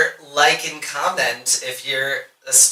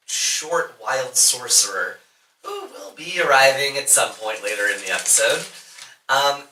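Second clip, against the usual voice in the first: game master narration; 3 dB quieter than usual. A narrator's reading. GM recaps the D&D story.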